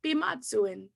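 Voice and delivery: Bimatsuin said slowly and clearly; Bimatsuin, each syllable given space; slow Cree word. Shown as a demonstration. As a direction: model Bimatsuin for the audience. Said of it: "Would you like to say that?".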